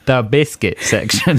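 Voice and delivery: The biscuit section given weighty mock emphasis, rising on biscuit; extra emphasis. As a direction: lean hard on biscuit for comic weight. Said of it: "Why are you saying it like that?".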